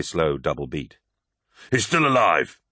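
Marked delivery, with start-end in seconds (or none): 1.7-2.6 higher urgent cry of hope; a higher, louder relieved cry. A narrator's reading. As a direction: call out that he lives. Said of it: "he cried".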